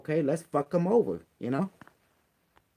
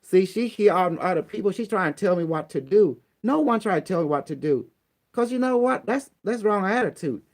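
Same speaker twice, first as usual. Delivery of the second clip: raised, heated complaint; 3 semitones higher, 3 dB louder than usual. Real, not acted. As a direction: vent your anger, getting louder. Heated complaint about Teresa on phone.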